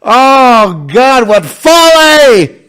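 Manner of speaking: high, loud, slow mock lament; drawn-out mocking wail at the folly; mocking outcry. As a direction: cry it out as a scornful mock sermon. Mocking outburst after laughter.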